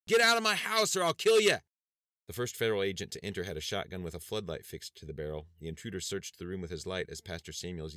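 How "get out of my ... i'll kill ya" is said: screamed threat, much higher and louder; desperate scream. A narrator's reading. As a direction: scream to drive them out. Pastor threatens intruders.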